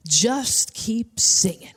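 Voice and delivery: slow, measured instruction to the singer; pastor urging on. Retold or imitated. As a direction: draw it out, urging her on. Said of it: "the pastor comes up and he says to me".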